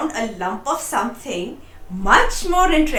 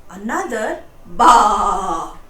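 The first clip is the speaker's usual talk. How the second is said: bleats building much louder; worried bleating; 7 dB louder, slower than usual. A narrator's reading. Frightened sheep bleating louder in the night. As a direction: build the baas into a worried flock. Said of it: "The sheep sounded worried".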